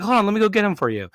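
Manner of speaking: quick, high eager offer; x1.4 brisk, helpful and high; imitating Renee. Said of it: "It's like".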